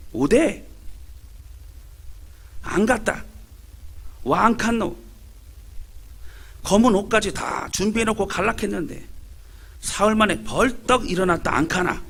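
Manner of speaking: lightly voiced Gyeongsang dialect old woman telling the punchline; a hint of an indignant Gyeongsang grandmother; Gyeongsang granny dialect. Granny delivering the joke's punchline, mild Gyeongsang dialect. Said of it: "경상도 할매들의 대화입니다".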